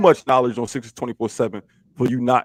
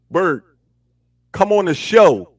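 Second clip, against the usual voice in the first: calling out; 3 semitones higher, 5 dB louder, slower than usual. Real, not acted. Calling Berg onto the show.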